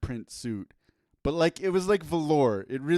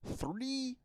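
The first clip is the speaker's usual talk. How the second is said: boxing ring announcer; 7 semitones higher, 4 dB louder than usual. Acted. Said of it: "I'm doing my ring announcer voice".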